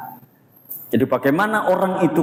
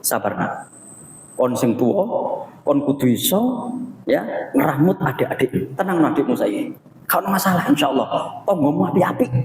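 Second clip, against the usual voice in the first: calm reassurance. Retold or imitated. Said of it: "Kalau menenangkan orang".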